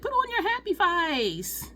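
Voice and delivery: high, drawn-out Texan cheerleading coach; happy Texan accent. Retold or imitated. Cheerleading coach telling a federal agent to cheer up, happy Texan accent. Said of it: "very happy, very Texan with her accent".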